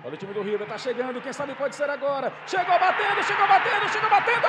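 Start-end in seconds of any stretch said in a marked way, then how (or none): 2.5-4.5 building excitement. Real, not acted. Narrador repete no lance.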